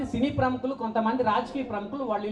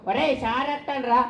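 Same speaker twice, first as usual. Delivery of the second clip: put-on kids calling out; slower than usual. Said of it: "cricket ఆడుతున్నారు".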